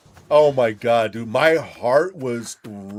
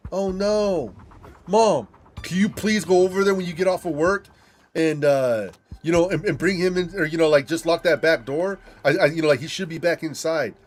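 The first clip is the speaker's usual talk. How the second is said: urgent plea; 5 semitones higher than usual. Retold or imitated. Pleading with mom on phone.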